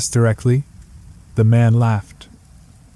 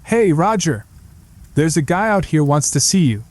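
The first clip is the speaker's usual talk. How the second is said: calls out, pitched up; yelling through the door; 4 semitones higher than usual. Acted. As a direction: shout through a closed door to Roger. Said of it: "he knocked on the door and yelled".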